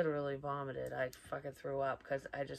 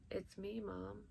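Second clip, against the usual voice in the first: put-on soft, higher child's voice; little tiny kid voice; 4 semitones higher, 9 dB quieter, slower than usual. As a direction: imitate a tiny child calling softly. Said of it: "this little tiny voice, like a little kid".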